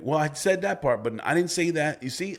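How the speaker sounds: imitating the wife. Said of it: "You're like".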